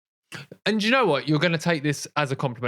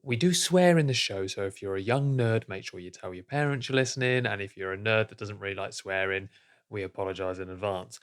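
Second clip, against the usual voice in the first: voiceover read; 5 semitones lower, 4 dB quieter than usual. Shown as a demonstration. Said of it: "a little voiceover that just says".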